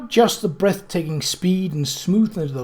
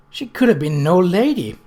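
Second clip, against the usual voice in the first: a touch louder, firm and certain; firmly; 3 semitones higher, 5 dB louder than usual. Acted. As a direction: state it like a settled fact. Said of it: "Nettie said firmly".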